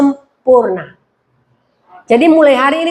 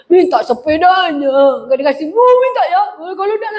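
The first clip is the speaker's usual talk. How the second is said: put-on whining little child; 4 semitones higher than usual. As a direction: imitate a small child tearfully begging. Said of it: "kayak anak kecil". (rengekan anak kecil yang dibuat-buat)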